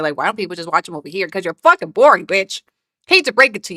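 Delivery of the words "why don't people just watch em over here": mocking whiny quote. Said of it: "you're a little frustrated".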